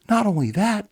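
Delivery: a jittery teammate raising alarm; nervous soldier pitching his voice up; anxious Augur. Acted. Augur worried outburst.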